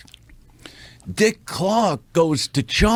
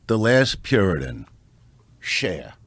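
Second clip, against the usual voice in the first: announcer intro; 5 semitones lower than usual. Shown as a demonstration. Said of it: "And ladies and gentlemen".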